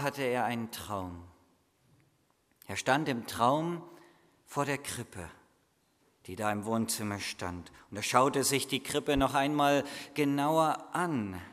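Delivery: put-on storyteller reading to children; children's Christmas story read aloud; story narration. A narrator's reading. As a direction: tell the Christmas tale gently, drawing the listeners in.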